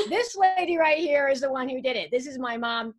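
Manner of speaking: ordinary delivery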